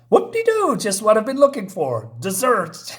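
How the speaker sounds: high gleeful creature eyeing dessert; high gleeful monster. Acted. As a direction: squeal it like a hungry monster.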